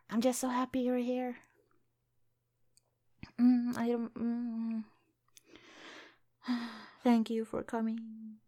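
lips pushed out in a pout; pouty face. Real, not acted. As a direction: pout while you speak. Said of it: "I'm making a pouty face".

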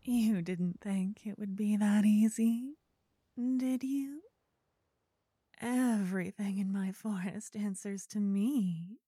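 whispered ghost, rising and teasing; ghostly voice. Acted. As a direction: tease like a forest spirit at the ear. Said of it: "you hear a ghostly voice".

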